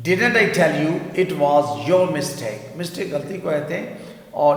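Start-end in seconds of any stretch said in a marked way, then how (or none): 0.1-2.8 even slower, deliberate repeat; teacher repeats the model sentence very slowly. Shown as a demonstration. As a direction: say it once more very slowly for students to copy. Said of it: "میں نے کہا تھا نا یہ تمہاری غلطی ہے".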